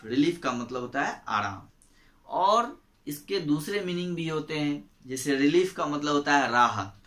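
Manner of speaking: ordinary talk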